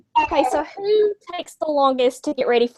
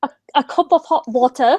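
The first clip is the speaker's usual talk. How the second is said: hesitant put-on British accent. Shown as a demonstration. Asked to say it by British band, tentative British accent. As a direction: attempt British English, carefully. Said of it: "wanted to do a British accent".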